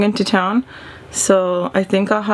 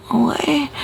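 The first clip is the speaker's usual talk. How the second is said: playing cute; 4 semitones higher than usual. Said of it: "all confused".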